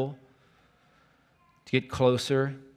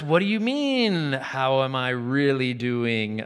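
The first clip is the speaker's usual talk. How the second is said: put-on startled teen; 5 dB louder than usual. Teenage boy caught off guard by the counselor's question, startled. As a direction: throw it back, caught off guard.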